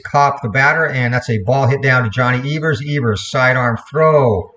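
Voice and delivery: lively baseball radio call; announcer calling each pitch; play-by-play. Acted. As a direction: call the game live like an old-time radio announcer. Live play-by-play resumes.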